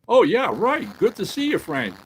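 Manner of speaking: hammed-up radio drama; commissioner's voice. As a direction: play the old-time radio commissioner.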